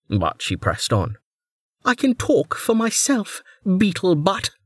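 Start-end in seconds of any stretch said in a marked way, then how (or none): 1.8-4.5 higher, curt retort; snappy Velika. A narrator's reading. Velika snapping at her minder, curt and higher. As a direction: put him in his place.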